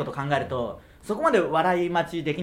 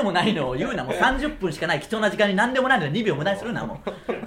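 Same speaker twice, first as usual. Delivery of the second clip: all in one breath. Real, not acted. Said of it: "息継ぎなしで注意したくないですよ".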